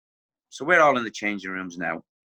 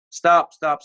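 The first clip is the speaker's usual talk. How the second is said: mock shout; 5 semitones higher, 6 dB louder than usual. Manager halting training, retold.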